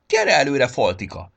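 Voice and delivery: loud summoning, falling on the name; calling forward. A narrator's reading. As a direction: coax the shy one out of the crowd.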